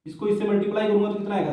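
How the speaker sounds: rattled off fast; hurried teacher repeat; quick repeat. Shown as a demonstration. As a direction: fire the question again quickly. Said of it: "same question asked again".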